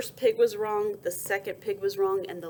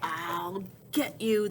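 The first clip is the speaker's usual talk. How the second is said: snorted; slower than usual. Acted. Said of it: "the big-bottomed boar snorted".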